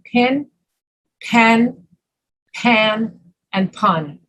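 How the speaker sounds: pin, pen, pan, pun with four distinct vowels; careful Northern model of pin, pen, pan, pun; Northern pronunciation. Shown as a demonstration. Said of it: "we make a distinction between".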